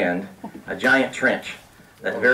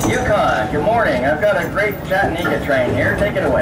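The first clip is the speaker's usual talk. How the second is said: lightly hammed-up theme-park announcer, higher pitched; a touch of tour-announcer patter; Disneyland announcer; 4 semitones higher than usual. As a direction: hand over like a ride host. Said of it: "his best Disneyland announcer tone of voice".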